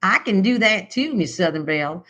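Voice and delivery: lightly hammed-up Southern US accent. Shown as a demonstration. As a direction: talk Georgia like a Southern belle. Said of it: "I'm gonna start talking Georgia".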